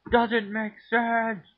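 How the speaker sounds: high, loud and slow outcry; loud exclamation. Real, not acted. Cook cries out in disbelief, slow and loud.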